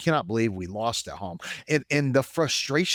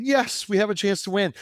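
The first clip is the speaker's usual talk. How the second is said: higher and louder, eager; excited hope; 11 semitones higher, 4 dB louder than usual. Retold or imitated. Fan retelling the swing to hope, excited. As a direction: jump back into hope.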